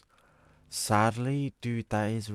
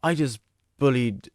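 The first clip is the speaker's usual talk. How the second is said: shocked; 6 semitones higher, 8 dB louder than usual. Real, not acted. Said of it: "an ill child".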